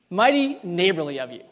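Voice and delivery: folksy Southern US accent, falling at the end. Shown as a demonstration. Preacher repeating a phrase he likes, in a Southern accent. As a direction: savour it in a light Southern accent. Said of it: "I like the Southern accent".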